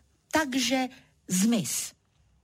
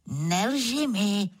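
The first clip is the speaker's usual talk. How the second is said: s úsměvem; slower than usual. Acted. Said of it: "řekl Levhart a usmál se".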